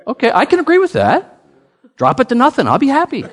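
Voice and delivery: high, laughing through the words; laughing joke. Retold or imitated. Pastor laughing at the hope the price drops to nothing. Joking about dropping the price.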